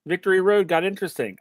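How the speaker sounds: a fan caught off guard by a good match; mock excitement. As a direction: perk up in sudden mock delight. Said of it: "I was like".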